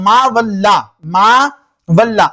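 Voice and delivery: मा वल्ला with a light lam and open "aa"; मा वल्ला, unrounded vowel after the lam; thin lam demonstration. Shown as a demonstration. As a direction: say मा वल्ला deliberately, keeping "laa" thin. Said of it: "देखिए मैं क्या पढ़ रहा हूँ".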